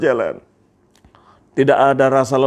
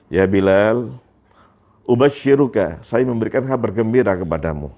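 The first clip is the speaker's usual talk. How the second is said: wise, reassuring; 3 semitones lower than usual. Acted. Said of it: "dengan bijaknya langsung menjawab".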